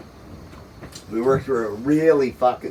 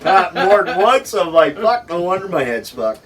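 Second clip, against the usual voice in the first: laughing through story; 7 semitones higher, 4 dB louder than usual. Real, not acted. Laughing while telling shock story.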